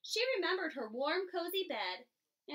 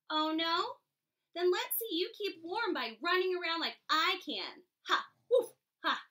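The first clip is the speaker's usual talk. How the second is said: louder mocking dog, laughing it off; taunting dog; 3 semitones higher, 4 dB louder than usual. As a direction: jeer like a cocky dog. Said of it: "barked the dog".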